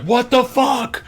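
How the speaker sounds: high, drawn-out shocked shout; shocked outcry. Retold or imitated. Watching the second one hit, high shocked shout. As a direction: cry it out, slow and loud, in retold horror.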